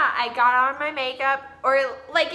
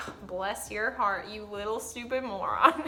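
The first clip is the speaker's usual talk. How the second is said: fake sweet insult; 3 semitones lower, 5 dB quieter than usual. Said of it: "They're like".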